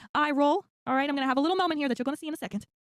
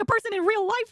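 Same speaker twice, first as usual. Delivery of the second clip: mock disbelief; 6 semitones higher, 4 dB louder than usual. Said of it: "I'm like".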